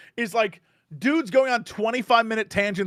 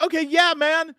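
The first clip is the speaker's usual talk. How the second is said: humoring; 10 semitones higher, 3 dB louder than usual. Retold or imitated. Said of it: "it was like".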